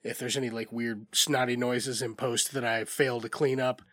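stuffy, congested voice; talking through a head cold; blocked nose. Real, not acted. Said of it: "I'm also a little bit under the weather".

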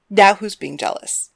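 light, playful teasing; a touch of playful mockery. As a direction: tease your jealous partner. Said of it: "Thalia teased".

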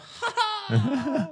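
high little creature's gleeful cackle; Babu Frick. Retold or imitated. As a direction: cackle like a tiny alien making an entrance. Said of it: "show up and go".

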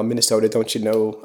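put-on a light, half-hearted Minnesota accent. Shouting out Minnesota friends, light Minnesota accent. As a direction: try the Minnesota lilt on Minnesota, don't you know. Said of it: "regional Minnesota accent".

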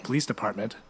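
a hint of stern officer; police officer. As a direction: state it with mock official authority. Prank caller posing as police.

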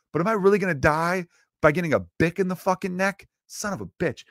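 mock panicked mugger. Mugger with a pen in his neck, hammed-up panic. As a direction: whine like a crook facing death. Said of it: "They're thinking".

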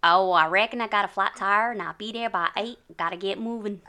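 put-on lightly done Southern US accent. The speaker copies the host's Southern accent. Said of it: "The South".

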